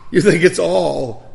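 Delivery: stern rebuke. Retold or imitated. Preacher rebuking family's attitude.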